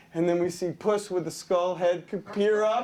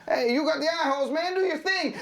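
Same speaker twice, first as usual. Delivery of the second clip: fast, higher-pitched retort; bickering partner; 5 semitones higher, faster than usual. Acted. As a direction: snap back quickly from inside the costume. Donkey argues back inside the costume.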